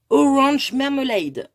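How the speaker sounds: Orange Marmalade said slowly with a French-accented English; slow careful English for Orange Marmalade; English brand name. Shown as a demonstration. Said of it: "Excusez-moi pour mon anglais".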